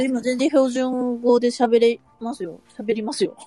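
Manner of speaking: slow, careful standard Japanese. Shown as a demonstration. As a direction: demonstrate standard Japanese on request, unhurried. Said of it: "標準語で話してもらっていいですか".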